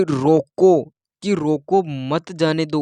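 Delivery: firm, loud रोको, then मत जाने दो as one phrase; villagers' command with a clear stop after रोको; pause after रोको. Shown as a demonstration. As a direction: break after रोको, keeping मत joined to जाने दो. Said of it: "गाँव वालों ने कहा".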